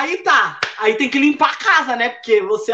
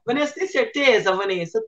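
softer, lower skeptical dad; quietly doubt her, as dad; doubtful father; 3 semitones lower, 5 dB quieter than usual. Retold or imitated.

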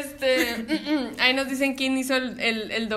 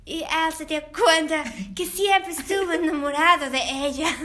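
lightly hammed-up dub narrator; half-serious movie dubbing, close to laughing; 3 semitones higher than usual. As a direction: attempt a dramatic dubbed-film line. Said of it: "no puedo hacer voz de doblaje".

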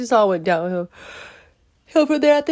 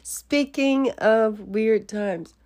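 slow drawl; 3 semitones higher, much slower than usual. Shown as a demonstration.

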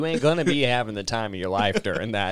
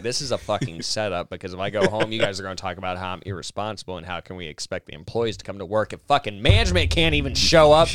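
building mock rant; 2 semitones lower than usual. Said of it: "I was like".

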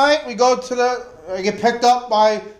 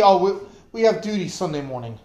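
mock excuse; 4 semitones lower, faster than usual. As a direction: hand over the lame excuse lightly. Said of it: "that's the excuse they gave me".

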